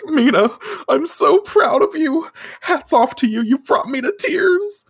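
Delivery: high, overwrought tearful pride; Artemis, mock sobbing. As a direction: blubber with pride, hammed up. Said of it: "he instantly starts sobbing".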